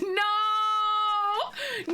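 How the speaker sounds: laughing shout. Real, not acted. Reacting to funny chat message.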